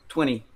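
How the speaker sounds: twenty said twenny, the T dropped; American twenty with no T, twenny; American twenny, flapped T gone. Shown as a demonstration. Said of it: "on va faire disparaître le T".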